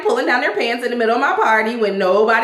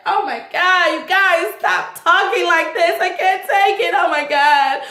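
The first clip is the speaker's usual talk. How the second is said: high, prissy scandalized lady; pearl-clutching Karen; 9 semitones higher than usual. Retold or imitated. Host mocking Karen's shock at the crude joke, high prissy clutching pearls. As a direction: play the shocked society lady.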